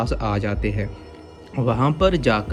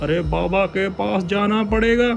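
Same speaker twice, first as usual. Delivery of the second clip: high anxious elder voice; alarmed and urgent; worried village head; 11 semitones higher than usual. Acted. (चिंतित मुखिया)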